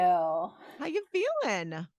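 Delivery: slow, drawled Nashville greeting; Nashville accent. Pretend. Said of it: "Nashville girl".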